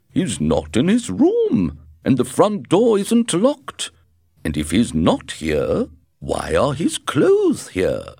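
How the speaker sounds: urgent and worried, calling up; alarmed. A narrator's reading. Husband reports the missing stranger.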